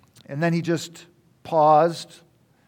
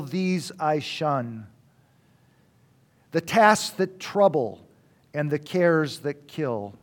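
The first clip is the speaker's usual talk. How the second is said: slow, measured verse recitation; poetry reading. Acted. Speaker reading a pipe-smoking poem to listeners, slow recital. Reads a poem stanza aloud.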